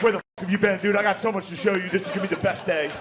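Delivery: high, excited welcome; eager dog-like greeting. Retold or imitated. Dog-like friend greeting you home, high and excited. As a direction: burst with joy at your return. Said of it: "they're like".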